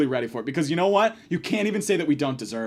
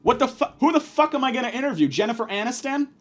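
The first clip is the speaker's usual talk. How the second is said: incredulous; 6 semitones higher than usual. Retold or imitated. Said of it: "I was like".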